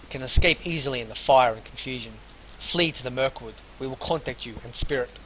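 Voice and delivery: projected, deliberate read-aloud narration; story narration. Acted. Player reads a found note aloud to viewers, story narration.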